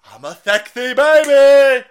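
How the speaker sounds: put-on high, slow, loud sing-song baby talk; mock baby voice. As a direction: coo it like a spoiled baby. Mocking the video's baby talk.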